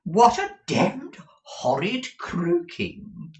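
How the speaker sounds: high, loud, very slow drawl; startled fop wailing up high; affrighted exclamation. A narrator's reading. Husband recoils from Ralph's voice, affrighted high drawl. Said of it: "turning affrighted round, exclaimed".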